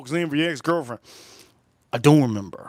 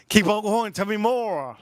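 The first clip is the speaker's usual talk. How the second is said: high-pitched, amused mock urging; laughing prompt; 8 semitones higher than usual. Boyfriend pressing her for more explanation, laughing.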